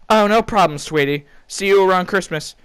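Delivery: high, sweet doting mother; mom voice. Acted. Mom cheerfully ending the call, high and sweet. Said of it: "mom replies".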